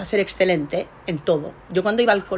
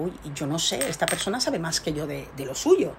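insecure murmur; 3 semitones lower, 7 dB quieter than usual. Retold or imitated. Voicing her own insecure thought.

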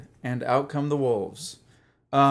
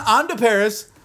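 put-on French accent; 8 semitones higher, 4 dB louder than usual. Mock French joking.

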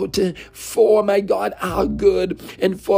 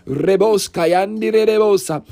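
fervent glossolalia burst; speaking in tongues. Real, not acted. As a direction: flow into tongues mid-prayer. Speaking in tongues mid prayer.

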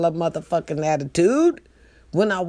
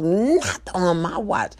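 acted catchphrase; slower than usual. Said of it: "act the whole thing out".

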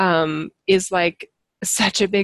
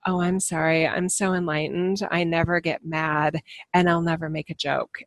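mock enlightened; 4 dB quieter than usual. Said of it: "I'm not pretending like".

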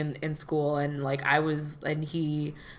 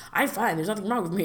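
higher-pitched mock "all fine" brush-off; mock insistent denial; 4 semitones higher, faster than usual. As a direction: imitate someone insisting nothing is wrong. Acting out men refusing help.

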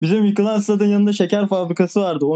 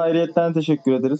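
ordinary talk, nothing marked

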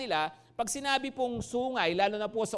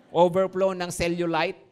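laughing; 3 semitones lower, 5 dB louder than usual. Real, not acted. Joking about neighbor's weight.

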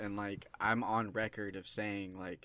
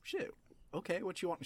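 retold surprise; 10 semitones higher than usual. Wife surprisingly agrees to watch.

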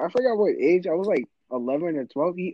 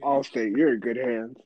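lightly lowered mock announcer voice; Allstate announcer; 4 semitones lower than usual. Teased kid answering with the insurance slogan, mock Allstate announcer. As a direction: play the ad spokesman, a bit low. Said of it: "to legit the Allstate fool".

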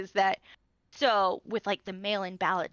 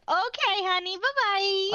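sassy dismissal; 10 semitones higher, slower than usual. Retold or imitated. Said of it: "I'm just like".

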